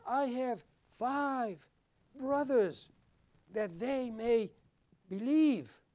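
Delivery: slow, drawn-out plea in a changed voice; pleading rich man. Acted. Rich man in hell begging Abraham for his brothers, slow pleading. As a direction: beg slowly as the rich man in torment.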